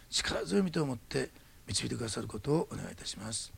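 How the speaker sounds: soft, steady prayer voice addressing God; closing prayer. Acted. Pastor praying for the congregation after the sermon, soft and steady. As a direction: pray sincerely for the congregation.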